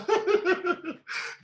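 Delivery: a quick delighted laugh; short laugh. Real, not acted. Laughs after the pause.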